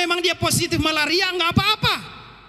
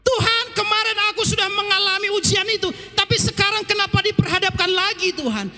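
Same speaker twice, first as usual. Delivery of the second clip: higher, pleading lament; anguished cry to God; 6 semitones higher than usual. Retold or imitated. Believer crying out to God in pain, higher pleading. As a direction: cry out to the Father in hurt. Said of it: "Seringkali kita menjerit".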